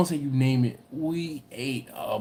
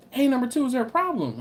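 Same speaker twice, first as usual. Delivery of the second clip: dad calling over; 9 semitones higher, faster than usual. Retold or imitated. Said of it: "And I'm like".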